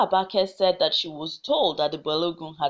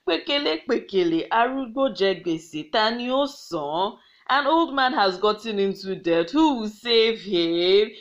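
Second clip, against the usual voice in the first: mocking. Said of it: "started to mock the Balogun".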